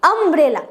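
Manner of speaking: अम्ब्रेला with a clear short अ opening; pronunciation demo. Shown as a demonstration. Teacher showing students the अ sound in अम्ब्रेला. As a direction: open अम्ब्रेला on a plain अ sound, as in Hindi. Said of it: "उसका pronunciation है अ".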